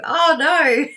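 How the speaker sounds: real amused laugh. Real, not acted. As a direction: giggle through it. Laughing at a near scream.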